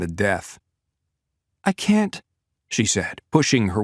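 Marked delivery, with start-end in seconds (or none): 1.6-2.2 put-on much higher young woman's voice, pleading; refuse, at the end of her strength; exhausted young woman near her limit; Natalia, young woman. A narrator's reading.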